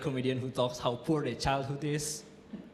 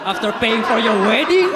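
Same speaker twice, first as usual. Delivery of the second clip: loud punchline; 5 semitones higher, 10 dB louder than usual. Real, not acted. Punchline shouted with laugh.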